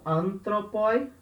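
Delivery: teacher models "antropoi", stressed at the front; stress on first syllable. Shown as a demonstration. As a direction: hit the opening An of "antropoi". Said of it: "o acento cai aqui atrás".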